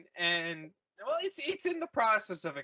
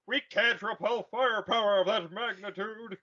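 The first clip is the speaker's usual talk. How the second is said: mock Admiral Akbar; 3 semitones higher than usual. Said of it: "Akbar's like".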